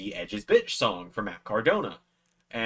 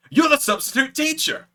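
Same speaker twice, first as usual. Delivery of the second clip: a high, loud, imitated Scottish accent; rough Scottish accent; 8 dB louder than usual. Wrestler recognising a fan, high loud imitated Scottish accent. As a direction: do Joe's Scottish accent, admittedly not great. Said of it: "I can't do a great Scottish accent".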